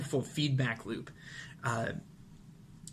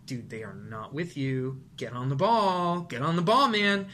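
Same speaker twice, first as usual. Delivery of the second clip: nagging inner voice. Retold or imitated. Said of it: "the little voice inside your head".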